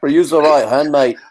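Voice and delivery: hammed-up Scouse trainer voice; Scouse corner man, playful mock accent. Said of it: "hybrid Scouser accent".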